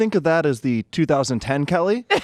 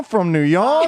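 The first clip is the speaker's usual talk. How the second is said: put-on old-timey radio voice; 3 semitones higher, much slower than usual. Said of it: "That sounded like an old-time".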